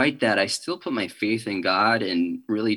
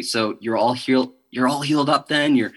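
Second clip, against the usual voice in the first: mock questioning, checking that all is well; retold questioners; 3 semitones higher than usual. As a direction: lightly imitate people asking, pitch lifted. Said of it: "people ask me now".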